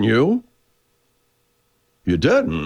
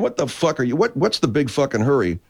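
sergeant's outburst; 9 semitones higher than usual. Retold or imitated. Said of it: "And I'm saying".

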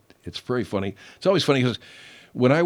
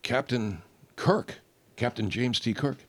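Picard quote; 4 dB quieter than usual. Retold or imitated. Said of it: "Picard looks at him, he says".

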